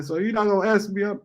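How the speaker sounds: imitating the lady. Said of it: "She like".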